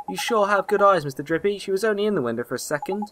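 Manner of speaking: lightly voiced impressed young lad; earnest boy hero. Boy admiring the fairy's good eyes, impressed.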